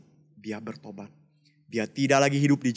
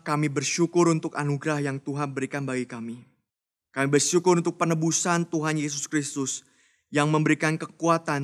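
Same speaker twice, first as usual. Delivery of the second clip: steady earnest prayer voice; closing prayer. Acted. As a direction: pray over the children sincerely.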